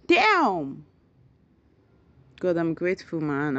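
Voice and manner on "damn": loud, higher surprised exclamation; higher, louder surprised cry. Real, not acted. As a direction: blurt it out in disbelief. Surprised at the count.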